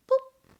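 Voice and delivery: short popped "boop"; imitated hang-up boop. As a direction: make a quick button-press boop. Imitates hanging up the phone.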